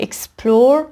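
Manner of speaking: اکسپلور stressed on PLOR; second-syllable stress. Shown as a demonstration.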